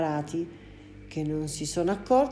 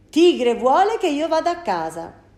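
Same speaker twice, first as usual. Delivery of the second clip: mister Frettini; 8 semitones higher, 9 dB louder than usual. Acted. Man answers the driver.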